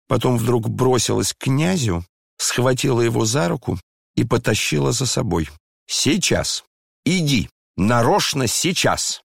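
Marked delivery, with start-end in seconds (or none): 5.9-9.2 impatient, higher and higher; frantic cry. A narrator's reading. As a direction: drag him along, urgent and frantic. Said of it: "вскричала она в припадке необычайного волнения". (нетерпеливо, взволнованно)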